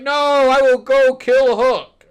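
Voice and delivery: loud, high, drawn-out mock defiance; hammed-up battle vow; defiant mock yell. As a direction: imitate a stubborn kid vowing revenge, slow and loud. Acts out Peter's defiant reply.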